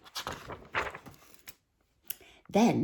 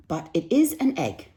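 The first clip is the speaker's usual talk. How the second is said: calm Mister Bird; 7 semitones higher, 5 dB louder than usual. Acted. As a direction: reason it out gently. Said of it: "said Mister Bird".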